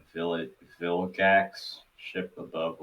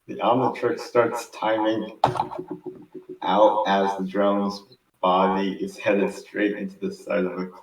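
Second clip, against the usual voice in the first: clearer re-read; 4 dB louder than usual. Real, not acted. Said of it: "can you re-say that? But clearer?".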